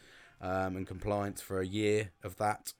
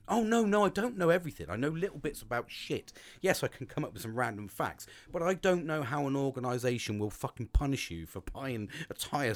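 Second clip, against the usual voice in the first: agitated protest; 3 semitones higher than usual. Retold or imitated. Retold protest to wife.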